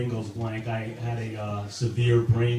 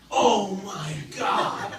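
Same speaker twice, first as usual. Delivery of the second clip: high, slow drawn-out moan; mock orgasm moan; 7 semitones higher, much slower than usual. A comic imitating a woman's climax, drawn-out moan. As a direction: ham up a climax cry.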